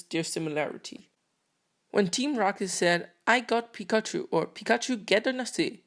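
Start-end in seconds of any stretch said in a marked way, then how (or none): 3.3-4.3 mock Japanese phrase, slightly higher; faking a Japanese line; fake Japanese. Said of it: "don't get mad at my fake Japanese". 4.5-5.8 mock Japanese phrase, slightly higher; faking a Japanese line; fake Japanese. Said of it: "don't get mad at my fake Japanese".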